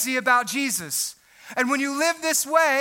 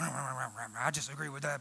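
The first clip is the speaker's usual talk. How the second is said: low, soft, slow muttered aside; mock grumbling agreement; 13 semitones lower, 16 dB quieter than usual. Pastor imitating a member agreeing, low slow mumble. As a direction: mumble it like a bored pew-sitter. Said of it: "pastor says".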